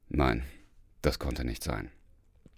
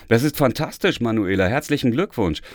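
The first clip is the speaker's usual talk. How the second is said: bright, high and louder, gushing praise; excited congratulations; 6 semitones higher, 4 dB louder than usual. A narrator's reading. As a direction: cheer her on for her degree. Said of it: "gratulierte mir Kirsten".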